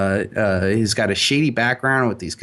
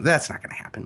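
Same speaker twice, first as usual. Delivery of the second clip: dismissive; 3 semitones higher, 5 dB quieter, faster than usual. Retold or imitated. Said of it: "like, dismissively".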